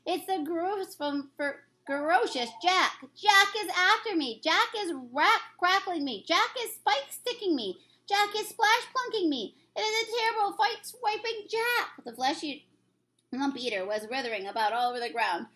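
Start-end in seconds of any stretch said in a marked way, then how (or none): 0.1-12.0 high, frantic giant cries; terrified. Acted. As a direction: wail out in terror. Giant screaming about Jack.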